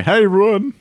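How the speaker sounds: squeaky high hello; silly high greeting. Pretend. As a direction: pop up into a high cartoon voice. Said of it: "one of the voices that I like to use".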